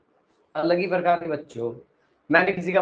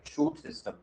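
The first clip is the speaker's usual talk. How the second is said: शूट सिस्टम in a much higher, sung-out prompt; prompting answer; 13 semitones higher, 7 dB quieter than usual. Shown as a demonstration. Teacher prompting the class to repeat the term, higher. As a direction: lift शूट सिस्टम high so students echo it. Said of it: "क्या बोलते हैं?".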